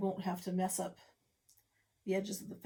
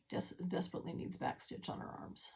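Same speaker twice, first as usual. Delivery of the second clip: soft half whisper; 7 dB quieter than usual. Real, not acted. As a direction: let it fade to a whisper. Trailing aside.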